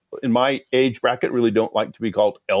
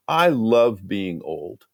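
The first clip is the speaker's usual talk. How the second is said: imitating her slow, emphatic restatement; deliberate repeat; 3 semitones lower, much slower than usual. Woman repeats her surprising line to the devotion group, slow and deliberate. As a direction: say it slowly so it sinks in. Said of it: "No, let me say that again".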